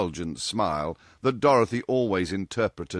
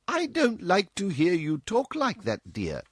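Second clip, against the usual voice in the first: grave; 12 semitones higher than usual. A narrator's reading. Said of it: "said Missus West gravely".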